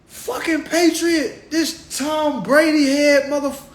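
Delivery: high, laughing disbelief; incredulous mockery. Comedian as onlooker baffled by the patriot, high laughing disbelief. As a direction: crack up in disbelief at the guy. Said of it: "I'll be like".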